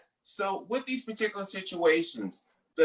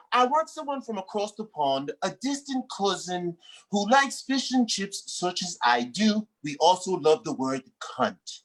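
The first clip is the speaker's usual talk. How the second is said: mock British accent. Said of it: "change my accent a bit".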